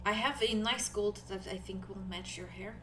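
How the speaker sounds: put-on soft, halting accented voice; Nori, shy and helpful. Nori offers a friend gold polish, shy accent.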